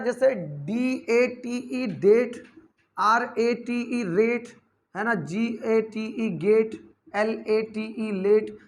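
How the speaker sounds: letter by letter, slowly spelled; slow spelling demo. Shown as a demonstration. Teacher spelling words slowly for students. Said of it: "तो A का generally sound देखिए".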